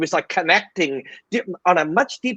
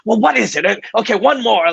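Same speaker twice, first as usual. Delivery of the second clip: higher-pitched, mildly edgy quote; a little edgy; 6 semitones higher, 3 dB louder than usual. Retold or imitated. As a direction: imitate a drained fighter reluctantly agreeing. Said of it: "he's a little edgy".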